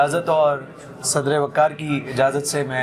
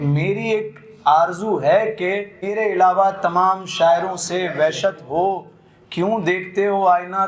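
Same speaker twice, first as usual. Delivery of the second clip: ghazal recitation. Acted. Poet reciting a ghazal to the mushaira audience, lilting recital. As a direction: savour each line for the gathering.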